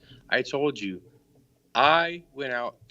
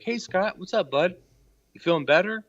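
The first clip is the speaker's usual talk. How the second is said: much higher, sugary mock greeting; sarcastic friendly mimic; 6 semitones higher, 7 dB louder than usual. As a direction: sweeten it up to mock the idea. Caller mocks friendly greeting to Scott.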